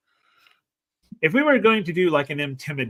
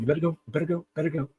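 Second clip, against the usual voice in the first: urging NPC; 3 semitones higher, much faster than usual. Acted. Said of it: "And then he says".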